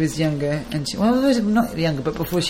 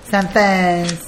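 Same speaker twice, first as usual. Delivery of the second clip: Essex accent. Shown as a demonstration. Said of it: "Try and say it with an Essex accent".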